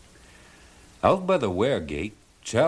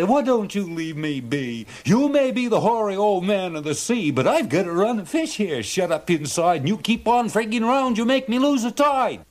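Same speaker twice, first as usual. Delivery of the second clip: much higher, louder put-on fisherman voice; exasperated fisherman; 11 semitones higher, 3 dB louder than usual. A narrator's reading. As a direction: plead and scold the sea god. Charlie argues with old man.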